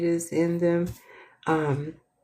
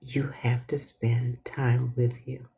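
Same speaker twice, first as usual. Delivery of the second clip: whisper; 5 semitones lower than usual. Shown as a demonstration. Whispered repeat of lesson.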